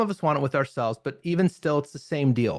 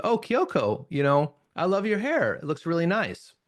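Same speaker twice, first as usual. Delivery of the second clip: sincere compliment; 3 semitones higher than usual. Shown as a demonstration. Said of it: "Notice that has a very different meaning".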